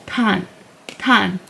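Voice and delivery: "tan" with puffed T, open ah, N ending; demonstrated syllable. Shown as a demonstration. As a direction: repeat "tan" as "tahn", set apart. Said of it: "So it's like".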